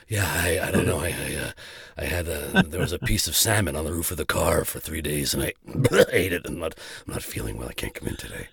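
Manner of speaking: weak, low, pitiful sick voice; fake sick voice. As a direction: sound too ill to work. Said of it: "you work on the sick voice".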